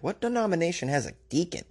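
baffled question, played up; mock incredulous. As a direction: ask it like it makes no sense at all. Quoting own past incredulous question.

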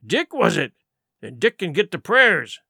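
lightly voiced pirate, needling a mate; a touch of jeering sea-dog; sardonic pirate Silver. Silver mocking Dick before the crew, sardonic pirate.

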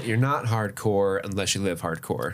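movie quote. Retold or imitated. Reciting movie catchphrase.

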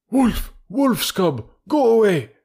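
high, forceful banishing cry; sharp exclamations, high and loud; priest shouting. A narrator's reading. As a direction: shout as if driving off a demon. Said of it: "shouted the priest".

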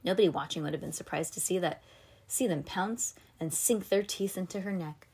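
ordinary delivery

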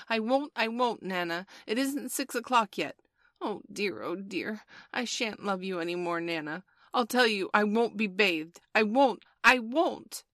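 high, loud bedtime tantrum; shouted protest. A narrator's reading. Small boy refusing his bath to Nana, shouted protest. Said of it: "he had shouted".

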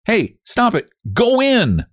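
high, urgent command; scolding. A narrator's reading. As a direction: order a squirming animal about. Scolding the wriggling mole.

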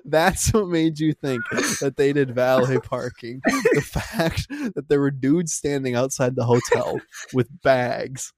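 slow, laughing incredulous repeat; mock disbelief. Repeating dad's reason back to him, slow laughing disbelief. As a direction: spell out his logic in amused disbelief. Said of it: "And I'm like".

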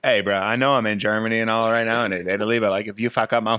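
loud, fast angry bar owner; frat bro. Retold or imitated. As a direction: threaten them like a mad bro. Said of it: "shout out to Chris in Europe".

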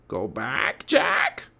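parrot talking. A narrator's reading. Parrot urging the boy home, squawking almost humanly. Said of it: "She sounded like a person".

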